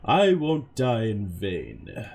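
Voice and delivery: loud, fired-up sensei; Guy Sensei voice. Acted. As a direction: bellow it like a hot-blooded martial arts teacher. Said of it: "Guy Sensei voice".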